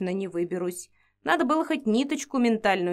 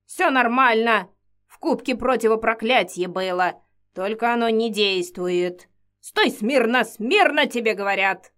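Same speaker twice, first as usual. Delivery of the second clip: loud orders; 4 dB louder than usual. Acted. Witch ordering her still.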